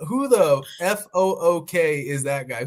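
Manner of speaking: Irish put-down, spelling out F O O K; Conor McGregor. Retold or imitated. Host replays McGregor's burn, mock Irish accent. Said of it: "In his Irish accent".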